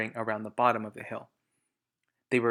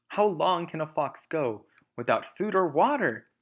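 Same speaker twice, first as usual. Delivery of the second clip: impatient farmer; 5 semitones higher, 5 dB louder than usual. Acted.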